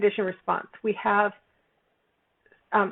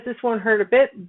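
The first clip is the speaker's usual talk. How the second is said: nurse; 2 semitones higher, 4 dB louder than usual. Retold or imitated. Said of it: "so the nurse says".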